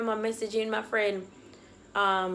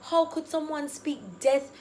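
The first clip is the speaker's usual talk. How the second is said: raised, incredulous scolding; flustered indignation; 4 semitones higher than usual. Retold or imitated. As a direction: retell a flustered rebuke. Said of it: "so flustered".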